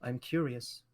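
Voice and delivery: put-on queen mother answering her son's request, in a Russian accent; female Russian accent. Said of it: "I'll do Russian woman".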